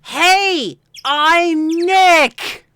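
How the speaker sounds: high, loud shout of a greeting. Acted. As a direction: yell it so the microphone picks it up. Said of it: "Maybe I'm not saying it loud enough".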